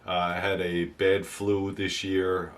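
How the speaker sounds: rough voice, still getting over the flu; hoarse flu voice. Real, not acted. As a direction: talk through the tail end of a flu. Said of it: "please excuse my voice".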